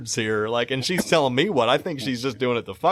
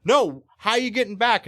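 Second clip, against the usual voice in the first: imitating the deaf lady; 6 semitones higher than usual. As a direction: lightly voice her repeated question. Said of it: "She's like".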